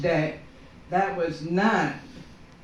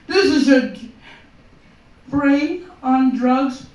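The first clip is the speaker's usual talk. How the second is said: ad slogan; 5 semitones higher, 5 dB louder than usual. Retold or imitated. Quoting the anti-drug ad.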